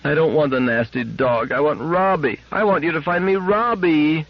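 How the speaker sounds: put-on high child voice, close to tears; a little girl refusing through tears; child pleading, rising high; tearful little girl. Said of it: "Gloria's eyelids had overflown".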